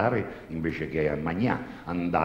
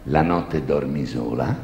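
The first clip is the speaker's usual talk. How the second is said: slow, lower confessor; slow priest voice; 5 semitones lower, slower than usual. Acted. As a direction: ask it slowly like a sly priest. Priest questions the girl.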